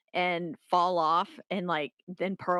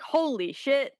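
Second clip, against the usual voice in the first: surprised; 8 semitones higher, 3 dB louder than usual. Retold or imitated. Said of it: "I was like".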